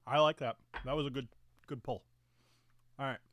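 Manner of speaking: talking with a mouthful; words muffled by food; mouth full. Real, not acted. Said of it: "forgive me infinitely for talking with my mouth full".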